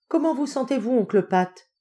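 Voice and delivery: high-pitched motherly concern. Acted. Madame Hopkins checking on dizzy uncle, motherly. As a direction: fuss over him tenderly. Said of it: "demanda maternellement madame Hopkins".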